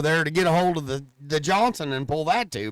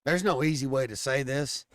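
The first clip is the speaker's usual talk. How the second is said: low, quiet and hesitant; mock-quiet embarrassed admission; low confession; 5 semitones lower, 5 dB quieter than usual. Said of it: "I said".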